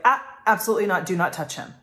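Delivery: sharp, loud and fast refusal; firm no. Retold or imitated. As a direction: stop them from helping, firmly. Mom stopping others helping toddler.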